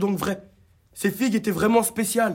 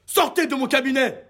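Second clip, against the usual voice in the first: higher, sharp throw-out; angry order; 6 semitones higher than usual. Acted. Dentist orders the old lady out, angry. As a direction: kick her out of the office.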